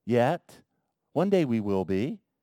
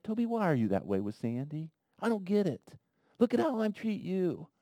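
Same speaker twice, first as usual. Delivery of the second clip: gentle; 4 semitones higher, 6 dB quieter than usual. Pretend. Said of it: "He doesn't say that to me like that".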